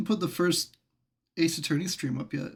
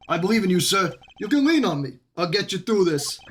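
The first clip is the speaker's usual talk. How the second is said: Gumshoe voice; 2 semitones higher, 4 dB louder than usual. Acted. Same Gumshoe voice continues.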